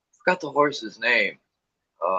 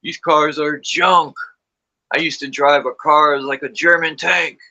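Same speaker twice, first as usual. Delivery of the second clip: a hint of a complaining grandpa; mild old-timer gripe; grumpy grandfather; 4 semitones higher than usual. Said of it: "He'd be like".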